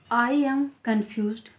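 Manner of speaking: drawn-out teaching demo; slow model sentence. Shown as a demonstration. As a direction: slowly repeat the example. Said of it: "teacher repeats model sentence".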